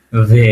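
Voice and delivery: "ভে" low, opening on a held v; V sound. Shown as a demonstration. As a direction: lean into the v of "ভে". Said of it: "ভয়ের মতো উচ্চারণ।".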